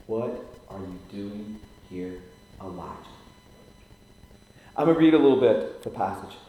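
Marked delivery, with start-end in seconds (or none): 0.1-2.9 quiet question. Acted. Preacher voicing God's gentle question to Elijah. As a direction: ask it gently, almost hushed. God asks him again.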